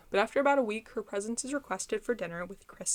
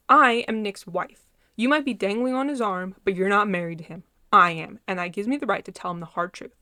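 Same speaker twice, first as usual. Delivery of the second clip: angry; 6 dB louder than usual. Acted. Blair confronts Nick and girlfriend.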